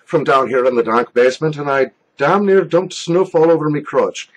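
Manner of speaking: hammed-up mock Irish brogue; stage-Irish greeting, badly faked; horrible Irish accent. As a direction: do a jokey, bad Irish accent. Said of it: "sorry for the horrible Irish accent".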